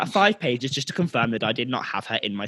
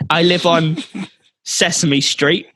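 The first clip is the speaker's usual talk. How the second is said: hammed-up patronising Swedish customer; slow, condescending; 5 semitones higher, slower than usual. Customer giving the clerk her name, slowly and condescendingly. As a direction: spell it out slowly as if to an idiot. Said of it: "very slowly in a very condescending tone".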